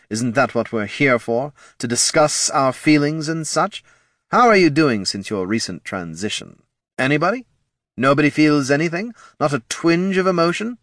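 high, coaxing lich voice; ancient lich voice. A narrator's reading. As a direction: prod them like an impatient lich. Lich prodding silent group.

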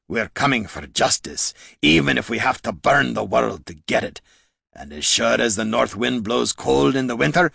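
restrained, menacing dwarf; measured threat in a dwarf's snarl. Acted. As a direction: deliver a vow with simmering anger, slowing at the end. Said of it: "the dwarf snarled".

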